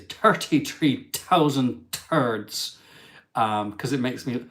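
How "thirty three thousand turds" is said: lightly put-on Irish accent, drawn out; slow, jokey Irish accent. Shown as a demonstration. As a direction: play up a comic Irish accent. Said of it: "said with an Irish accent is".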